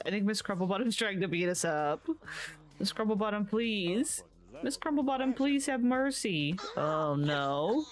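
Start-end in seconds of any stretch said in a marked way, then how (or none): 2.8-6.6 mock pleading. Mock begging game character for mercy.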